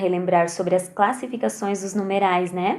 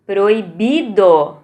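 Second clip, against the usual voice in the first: Proibido. slowly, bi louder and held; stress on BI; 3 semitones lower, 5 dB louder, much slower than usual. Shown as a demonstration. Teacher to pupils, Proibido. slowly with bi stressed. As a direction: draw out bi in Proibido. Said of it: "No bi".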